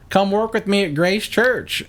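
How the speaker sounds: high, stretched-out sing-out invitation; high put-on voice of a woman recruiting; Kaylee Wyatt impression. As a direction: imitate her high, slow-paced pitch. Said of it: "exactly how t-, she talks".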